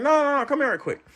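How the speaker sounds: chuckling through the words; amused, half-laughing command; laughing insistence. Real, not acted. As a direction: push him along with a laugh. Insisting on the internet guy.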